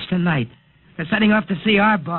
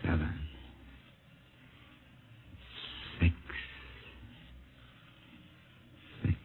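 drowsy fading count; 11 semitones lower, 12 dB quieter than usual. Acted. Hypnotized man counting down.

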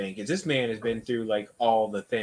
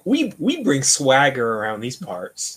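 mock swagger; 5 dB louder, slower than usual. Voicing Gimel's bravado.

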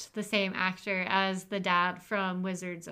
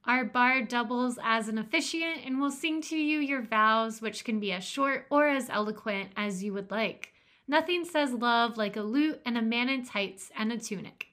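ad read; 3 semitones higher than usual. Acted. Reads a mock wedding ad.

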